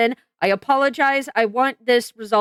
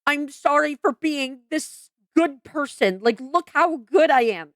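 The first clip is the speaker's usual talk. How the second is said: mock self-praise; 3 semitones higher than usual. Mocking the apologizer's humblebrag, lightly smug. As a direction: parody the fake apology as self-congratulation. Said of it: "You are saying".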